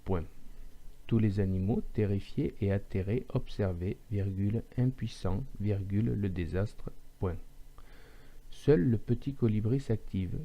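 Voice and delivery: dictée avec la ponctuation dite à voix haute; lecture dictée. Shown as a demonstration. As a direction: dicte le texte à une machine, groupe par groupe. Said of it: "je vais vous lire un petit texte". (dictée à voix haute, ponctuation énoncée)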